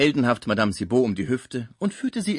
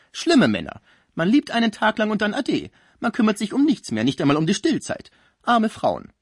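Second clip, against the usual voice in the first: higher, louder, theatrically lamenting voice; gossipy concierge; 7 semitones higher, 5 dB louder than usual. Acted. Concierge bewails faithless men to her patient, dramatic lament. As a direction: build from nosy teasing to loud lament.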